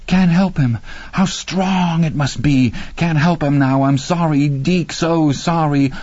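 helpless, breaking apology; despairing. A narrator's reading. Randy despairing as friend dies.

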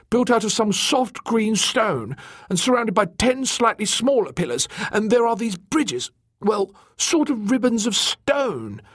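high, enthusiastic explainer; excited. Acted. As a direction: rattle off the discovery in a high, eager voice. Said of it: "he said excitedly".

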